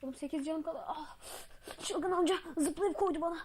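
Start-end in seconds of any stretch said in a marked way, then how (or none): 1.8-3.4 high, louder whining cry; hammed-up crying complaint; mock wail. Player wailing that the crazy old man jumped him, high mock cry. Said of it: "cry heard".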